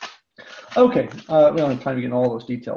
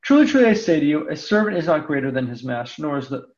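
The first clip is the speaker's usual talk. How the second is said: raised, measured reading of the Gospel; scripture reading. Acted. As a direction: read the passage to the class, unhurried. Reads the Gospel passage aloud.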